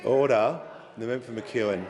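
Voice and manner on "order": raised call to order; shouting order. Real, not acted. Speaker calls chamber to order.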